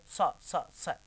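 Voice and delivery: स, स, स as identical short plain s sounds; common mispronunciation. Retold or imitated. Teacher showing how we muddle the sibilants, identical स sounds. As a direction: say स three times, all alike. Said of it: "इसलिए हम क्या बोलते हैं".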